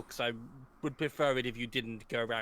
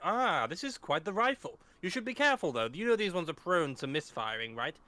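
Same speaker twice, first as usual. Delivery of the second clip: calm professor voice. Acted. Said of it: "cross-eyed looking at".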